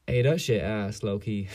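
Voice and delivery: mock his loud blurt, half-hearted; retold loud remark. Classmate blurting about teacher's project, mock loud. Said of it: "Like, all loud".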